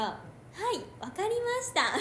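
imitating Siri. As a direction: play the phone answering brightly. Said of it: "みたいな".

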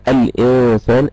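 الإنسان with an audible vowelless n; teacher showing the still n in الإنسان; sounded still noon. Shown as a demonstration. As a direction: say الإنسان carefully, holding the n before the s. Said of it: "أدي في نون ساكنة".

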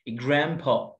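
جراندبا with a hard P, not B; heavy P. Shown as a demonstration. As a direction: say جراندبا as 'grampa' with a popped P. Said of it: "با، بي تقيلة".

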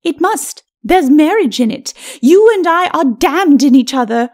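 high, forceful lady's voice; scornful lady. Acted. Lady quarrels with husband.

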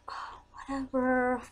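breathy whisper, slow; whispered dismissive. Retold or imitated. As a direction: whisper it off with a shrug.

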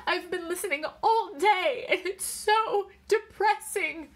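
high, loud, tearful complaint; sobbing. A narrator's reading. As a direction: wail it as if in tears. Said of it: "Irene was sobbing".

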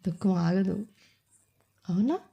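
whispered question. Real, not acted. Preacher checks in with the congregation, whispered.

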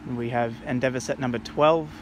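gusty wind noise over voice; wind on mic. Real, not acted. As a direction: wind buffeting the microphone. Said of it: "Excuse the wind noise in the".

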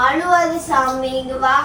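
soothing. Real, not acted. Woman comforts a crying child.

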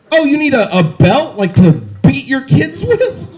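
lightly mock an over-eager employee; kinky store employee. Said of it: "It's a kinky Safeway employee".

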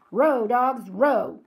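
loud, barked pirate command; shout. Acted. Captain Bones drives his rowing pirates, shouting. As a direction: bark it at the rowers in bursts. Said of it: "Captain Bones shouted".

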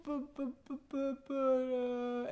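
put-on stammering little boy. Son stammering, caught in lie.

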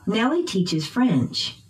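slow, "Nellie" and "French" stressed; unhurried drill, peaks on "Nellie" and "French"; noun stress. Shown as a demonstration. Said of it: "using pitch change".

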